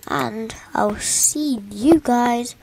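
slow whispered goodbye; whispering. Real, not acted. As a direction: whisper the sign-off. Whispered video sign-off.

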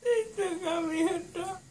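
tearful, drowsy whimper; groggy crying. Real, not acted. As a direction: sob through the words.

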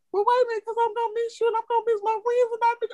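put-on high, fast pleading kid voice; imitating whiny child. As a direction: beg like a daughter who regrets it. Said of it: "And I said".

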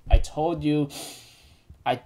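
lightly acted tender comforting; gentle reassurance. Bond hugs Elaine and promises a journey, tenderly.

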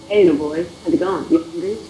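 half-hearted creepy come-on; badly done creepy impression; Herbert. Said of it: "My Herbert accent is horrible".

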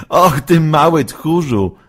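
high, loud teasing jab; mock her playfully; teasing laugh. Waluś laughingly teases frightened Halszka. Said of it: "zaśmiał się Waluś".

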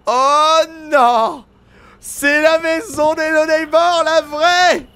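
high, loud, stretched-out exclamation; big dramatic reveal, drawn out; astonished recognition. Real, not acted. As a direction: cry it out in amazed disbelief. Recognises the original neighbour's house.

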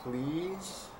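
soft, small pleading question; timid plea. A narrator's reading. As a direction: ask meekly again. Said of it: "this time I said".

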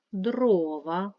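дрова with a loud, stretched first syllable; stress on first syllable. Shown as a demonstration. Teacher showing pupils the stressed syllable, stress on the first in дрова. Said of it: "перший склад наголошений".

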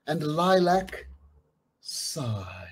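soft, fading sigh. Acted. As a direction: breathe the words out. Sigh image voiced.

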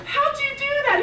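very high, loud, laughing through tears; tearful joy. Retold or imitated. Wife asking husband, teary and delighted, very high. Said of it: "I said".

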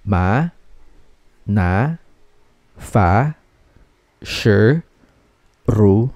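"Ma, na, fa, shi, ru" each rising from low; second tone. Shown as a demonstration. Teacher repeating second tone, "Ma, na, fa, shi, ru" all rising. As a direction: glide every syllable of "Ma, na, fa, shi, ru" upward. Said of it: "that's a second tone".

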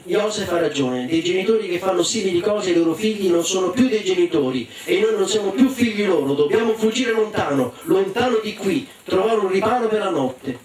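discorso deciso che sale di tono; sorella risoluta. Acted. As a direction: esorta i fratelli alla fuga, infervorandosi. (sorella decisa, in crescendo)

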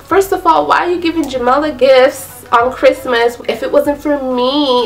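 angry friend. Retold or imitated. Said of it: "I think she lost her mind".

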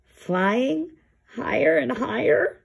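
anxious bear echoing the puffin; nervous echo. Acted. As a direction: repeat it back in growing alarm. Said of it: "Lars gulped".

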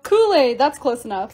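ordinary delivery

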